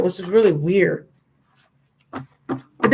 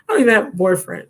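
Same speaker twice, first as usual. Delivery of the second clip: quicker, laughing through the repeat; faster than usual. Real, not acted. Repeating it to the driver, laughing. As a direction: laugh it off as you say it again.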